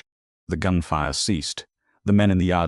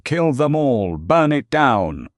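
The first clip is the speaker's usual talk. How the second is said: much higher, loud, slow scream; frantic scream; 10 semitones higher, 8 dB louder, slower than usual. A narrator's reading. Silas screams at his men in panic, high and loud. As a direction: shriek the order in panic. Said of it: "Silas screamed at his men".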